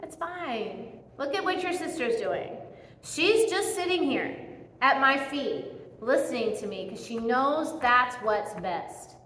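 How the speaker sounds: Jesus calming anxious Martha, soft and relaxed; soothing calm-down. Retold or imitated. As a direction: settle her down gently and quietly. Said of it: "He's like".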